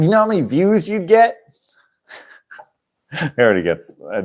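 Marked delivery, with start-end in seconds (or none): 0.0-1.4 excited pitch. Retold or imitated. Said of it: "I'm like".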